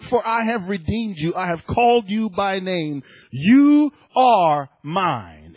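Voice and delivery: emphatic, declamatory Bible reading; scripture reading. Real, not acted. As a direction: proclaim the verses, leaning on key words. Reads Isaiah to congregation.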